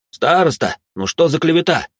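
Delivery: high-pitched indignant protest; возмутись, повысив голос; возмущённо. A narrator's reading. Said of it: "немедленно возмутился один из студентов". (студент возмущённо протестует)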